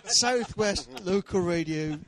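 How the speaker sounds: slow, drawn-out local radio DJ. Shown as a demonstration. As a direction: lean into a West Country radio host. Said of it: "I've gone into my".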